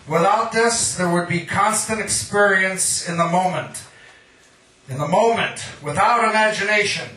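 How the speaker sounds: measured, rhythmic poem recital; poetry reading. Acted. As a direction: read it like a poet at an open mic. Reads his own poem aloud.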